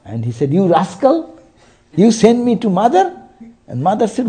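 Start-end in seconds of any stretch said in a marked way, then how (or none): 0.5-3.2 indignant retold scolding, pitch climbing; higher, angry reproach in a retelling. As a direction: accuse him in mock outrage, rising to a question. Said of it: "he came back angry. And he said".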